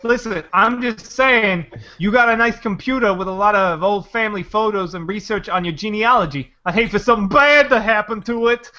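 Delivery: lightly voiced mob extortionist; mobster shakedown. Mob goon pitching computer protection to a customer, mock mobster menace. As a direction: make a veiled threat like a mobster, lightly. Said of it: "It's just a mob scheme".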